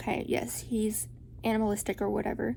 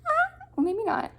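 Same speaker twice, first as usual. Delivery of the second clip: deflated shrug; 4 dB louder than usual. Retold or imitated. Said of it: "and I was like".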